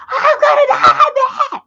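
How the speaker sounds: very high, loud mock shriek; screaming. Shown as a demonstration. Demonstrating what makes men shut down, screaming shrilly. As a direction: scream it at the top of your voice. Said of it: "So you start screaming".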